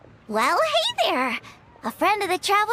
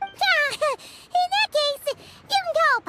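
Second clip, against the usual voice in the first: laughing; 8 semitones higher, slower than usual. Acted. Paimon joking back, laughing.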